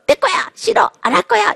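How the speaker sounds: put-on high, shouted child's protest; toddler tantrum. Defiant toddler refusing parents, high protest.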